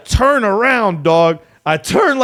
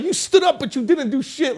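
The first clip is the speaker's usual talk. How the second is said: excited retelling; 9 semitones higher than usual. Retold or imitated. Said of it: "He'd be like".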